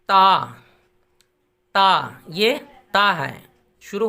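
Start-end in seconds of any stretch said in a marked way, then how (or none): 0.1-2.2 ता said light and thin, tongue at the teeth; a crisp, thin ता for the learners. Shown as a demonstration. Teacher shows students the thin ता sound clearly. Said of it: "इसको ता पढ़ना है पतला बिल्कुल".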